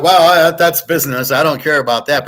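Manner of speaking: callous father. Retold or imitated. Villain's father answering Liam, loud and callous. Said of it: "the father's like".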